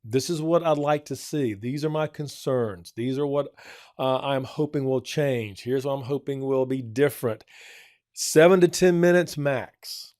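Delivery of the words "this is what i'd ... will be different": calm parent. Retold or imitated. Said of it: "you let 'em know".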